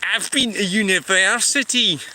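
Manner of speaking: lightly put-on educated Scottish accent. Shown as a demonstration. Scot jokingly proving to viewers he's been to university, mock-educated accent. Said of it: "that's why my accent is more educated".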